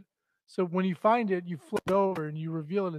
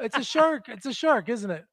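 imitating son; 4 semitones higher, 3 dB louder than usual. Father imitates son guessing animals.

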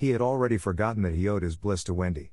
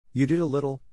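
offhand, pitched up; careless; 5 semitones higher than usual. A narrator's reading. Boy dancing on, crediting the girl carelessly. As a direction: toss it off carelessly, high. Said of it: "Peter said carelessly".

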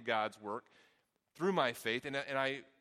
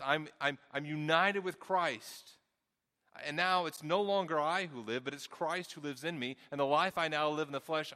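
preaching at full force; 4 dB louder than usual. Acted. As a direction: proclaim it to the whole room. Preaching climax on the verse.

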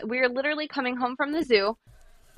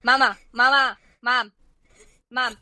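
mock toddler scream; 3 semitones higher, 4 dB louder than usual. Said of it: "she starts screaming".

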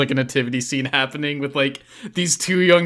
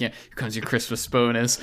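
soft, lower murmur meant only for them; quiet aside; 5 semitones lower, 7 dB quieter than usual. Retold or imitated. Handing the bonus over quietly, a soft aside. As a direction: keep it low and discreet. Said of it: "like, a quiet".

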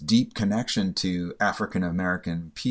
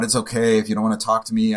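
blurted out; 3 semitones higher, 5 dB louder, faster than usual. Retold or imitated. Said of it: "I kind of blurted out".

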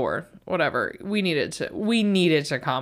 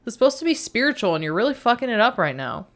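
higher, fast irritated outburst; snapping at inner critic; 6 semitones higher than usual. Retold or imitated. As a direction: snap at the nagging voice to stop. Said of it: "And I'm like".

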